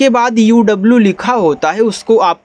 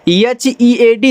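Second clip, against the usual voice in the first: slow letter-by-letter spelling; 4 semitones higher, much slower than usual. Shown as a demonstration. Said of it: "इसको हीड नहीं पढ़ना है".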